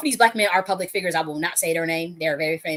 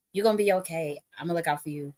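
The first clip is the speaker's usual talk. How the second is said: softer promise before the scolding; imitated reassurance; 4 dB quieter than usual. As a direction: settle her down as her protector. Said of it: "channel the energy of how he said it".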